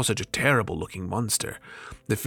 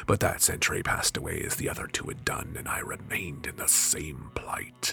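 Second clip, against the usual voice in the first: jinn recounting captivity; 4 semitones lower than usual. Acted.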